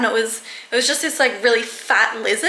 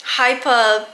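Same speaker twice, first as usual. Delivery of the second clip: real shaken excitement, higher and louder with a tearful edge; still hyper; 4 semitones higher, 4 dB louder, much slower than usual. Real, not acted. Owner telling viewers about the snake scare, shaky and hyper. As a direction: still buzzing from the scare, voice wobbling. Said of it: "in shock".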